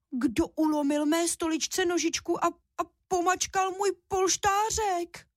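high, despairing little cub, slowing at the end; desperate squeak. A narrator's reading. Little cub seeing his broken chair and pillow, high desperate squeak. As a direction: wail it like a heartbroken baby bear. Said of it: "Ten jenom zoufale vypískl".

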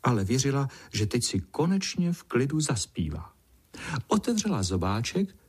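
ordinary delivery

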